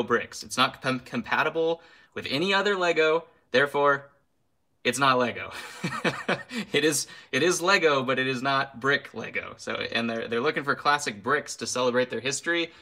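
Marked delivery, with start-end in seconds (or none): 5.6-8.0 laughing. Real, not acted. Laughing at own rant.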